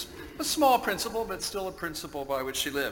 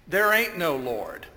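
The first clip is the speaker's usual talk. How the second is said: loud, mildly cross acted retort; angry retort; 2 semitones higher, 5 dB louder than usual. Atheist neighbor answering the praying lady, mildly angry retort. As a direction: answer her back firmly, with a touch of anger. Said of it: "got very angry".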